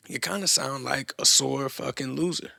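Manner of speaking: "loser" leaned on with a rising end; stress on LOSER. Real, not acted. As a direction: lean on the word "loser". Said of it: "Emphasis on loser".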